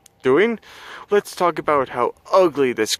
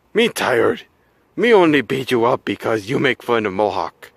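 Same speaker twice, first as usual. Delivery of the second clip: caveman monster voice; 5 semitones lower than usual. Acted. Monster talks broken English.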